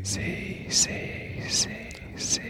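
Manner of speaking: breathy unvoiced whisper, right on the mic; tiny whispered see sounds for sleep; ASMR whisper. Shown as a demonstration. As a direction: whisper it close like an ASMR clip. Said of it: "See those noises?".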